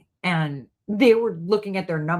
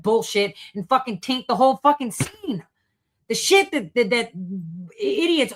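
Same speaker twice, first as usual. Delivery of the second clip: rising angry outburst, higher; getting mad; 6 semitones higher than usual. Real, not acted. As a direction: sputter with building rage. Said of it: "I'm getting very mad now".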